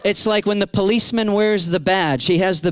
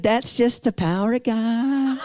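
slow, chuckling voice of the praying woman; slow laughing answer to the frightened teen; laughing reply; 4 semitones higher than usual. Retold or imitated. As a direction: laugh through it, amused and sure.

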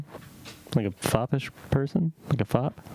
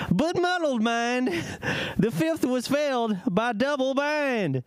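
put-on southern accent; 8 semitones higher than usual. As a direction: read it with a hint of southern accent. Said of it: "You said southern, right?".

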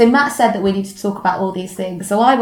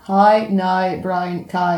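Northern Irish accent; much slower than usual. Shown as a demonstration. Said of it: "The other is you say".

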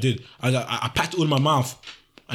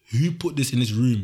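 stern questioning; 2 semitones lower, slower than usual. Retold or imitated. Mum's interrogation acted out.

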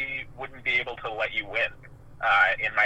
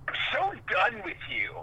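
put-on high, sulky teen-movie brush-off; dramatic teen; 10 semitones higher, 3 dB quieter than usual. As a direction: toss it off like a rom-com teenager. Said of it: "straight out of ... a teen, rom-com".

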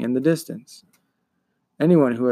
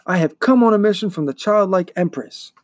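higher-pitched, earnest hero's voice; young hero declaring; 5 semitones higher than usual. Acted. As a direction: announce your mission firmly to the monster. Atreyu declares his mission to monster.

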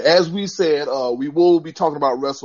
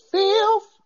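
high squeaky fifth; 3 dB louder than usual. Pretend. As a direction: pop way up on fifth. Jokey correction, voice jumps up.

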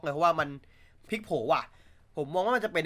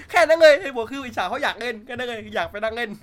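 amused admission; 7 semitones higher, 10 dB louder than usual. Real, not acted. Still laughing about envy.

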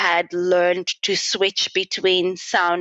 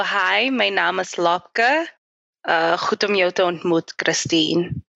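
Afrikaans greeting. Shown as a demonstration. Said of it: "so then I would go".

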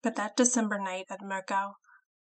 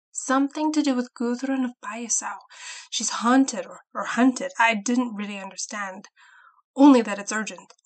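urgent; 3 semitones higher, 7 dB louder than usual. Acted. Frightened farmhand reports urgent news.

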